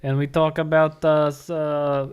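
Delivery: put-on poor Russian accent. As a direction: keep up the bad Russian accent. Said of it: "your poor Russian accent".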